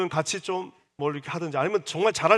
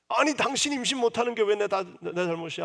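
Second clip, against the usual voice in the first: angry retort; 5 semitones higher than usual. Acted. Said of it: "막 화를 내고 있는".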